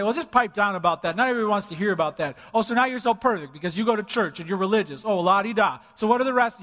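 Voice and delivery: sneering, dismissive mockery; snide mock of a heckler; mocking scoffer. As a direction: mimic a scornful critic.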